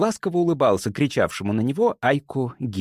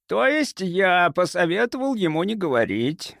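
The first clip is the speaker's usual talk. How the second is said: sugary, higher-pitched reply; honeyed, innocent-sounding correction; sweet voice; 7 semitones higher than usual. A narrator's reading. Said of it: "сладким голосом произнёс".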